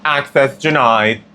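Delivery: slow, deadpan machine announcement; lightly mocking an automated gate; intercom voice. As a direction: read it like a robotic door system. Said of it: "the denial buzzer".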